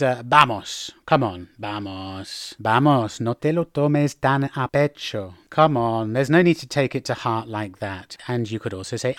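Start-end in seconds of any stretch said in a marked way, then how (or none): 0.2-8.2 lower, coaxing consolation; sympathetic anda. Shown as a demonstration. Telling a friend not to take it to heart, consoling. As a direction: gently talk someone round. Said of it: "to convey the same meaning as anda".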